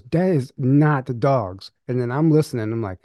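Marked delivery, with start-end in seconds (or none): 0.0-1.7 slow, deliberate, half-acted insistence; mild mock fear. Girlfriend insisting to him about the noise, slowly and mildly. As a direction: spell it out slowly like she's sure. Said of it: "She goes".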